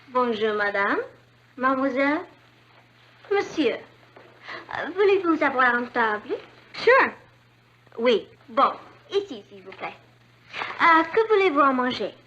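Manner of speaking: lightly played French waitress; pretend waitress. Daughter playing a waitress for the family, lightly voiced. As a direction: greet the table like a waiter. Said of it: "I'll be a waitress".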